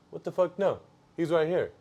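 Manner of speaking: quick, baffled pushback; retold baffled protest. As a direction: re-enact an incredulous objection. Retold protest at being steered away.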